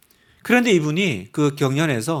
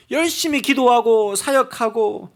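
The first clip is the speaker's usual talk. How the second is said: ordinary talk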